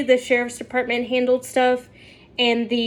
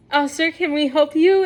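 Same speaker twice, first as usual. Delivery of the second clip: normal-volume, friendly clerk question; aunt's polite question; 2 semitones higher, faster than usual. Retold or imitated. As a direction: repeat it evenly, a shade brighter. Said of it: "my aunt Michelle goes".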